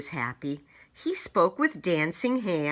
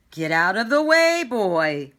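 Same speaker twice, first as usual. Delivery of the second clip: loud high royal command; commanding order; 4 semitones higher, 8 dB louder than usual. Acted. King ordering boy off the battlefield loudly. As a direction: bark it out to clear the field. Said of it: "ordered the king".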